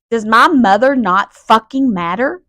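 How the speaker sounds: real exasperation, pushing the words out; fed-up, forceful challenge; irritated. Real, not acted. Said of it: "I'm so irritated right now".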